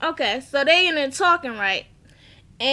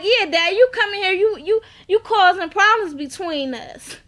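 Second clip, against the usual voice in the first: mild mock anger, a touch higher; 5 semitones higher, 4 dB louder than usual. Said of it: "And she like".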